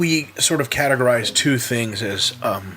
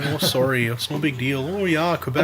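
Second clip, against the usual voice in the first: put-on Canadian accent. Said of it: "I have a pretty well-developed Canadian accent".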